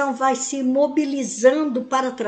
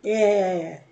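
calm apology; 4 semitones lower, 4 dB quieter than usual. Shown as a demonstration. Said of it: "falando com outra pessoa".

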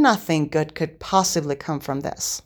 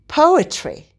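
hissed; 10 semitones higher, 5 dB louder than usual. A narrator's reading. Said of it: "he hissed".

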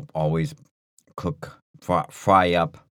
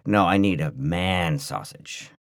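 slow seductive; slower than usual. Retold or imitated. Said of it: "rub the back of your hand on my cheek and say".

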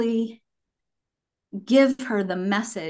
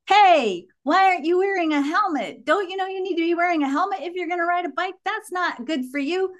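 imitating a bossy toddler; 9 semitones higher than usual. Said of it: "She would yell things like".

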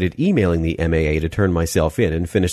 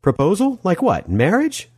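deadpan; 13 semitones higher than usual. Acted.

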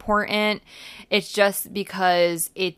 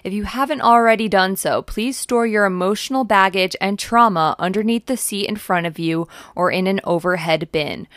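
lightly played flight attendant announcement; 6 dB louder than usual. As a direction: cabin announcement over the intercom, a little louder. Airline announcement parody, podcast intro.

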